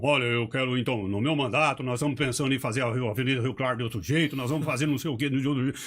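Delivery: imitating a politician rattling off promises fast; fast mock campaign pitch, pushing it down their throats; rushed politician speech. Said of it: "Ele vai empurrando a coisa goela abaixo". (imitação acelerada de um vereador em discurso)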